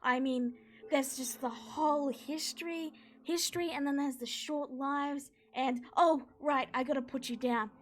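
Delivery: high, loud starstruck gush; fanboy gushing over heroes; overexcited centaur blurting praise. Acted. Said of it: "then he goes".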